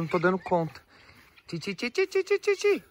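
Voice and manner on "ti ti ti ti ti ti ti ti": rising into a high, repeated "ti ti" call; calling the chicken. Real, not acted. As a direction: chant a high coaxing call to bring the hen back.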